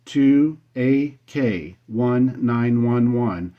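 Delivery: slow, each character set apart; careful dictation. Real, not acted. Radio operator giving his call sign to a contact, careful dictation. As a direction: dictate it slowly and clearly.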